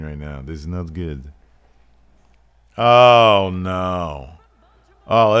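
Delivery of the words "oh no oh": loud, drawn-out oh of dread; dismayed groan. Pretend. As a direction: groan loudly as if disaster has struck. Dismay at logo on screen.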